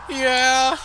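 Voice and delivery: high, loud shouted yeah; mock shouted yes. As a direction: belt out the yeah. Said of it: "his answer is".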